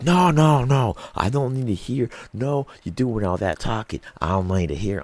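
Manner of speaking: high, loud mock rant cutting her off; imitating a rude guy, high and loud; mock angry guy. Angry guy voiced in story.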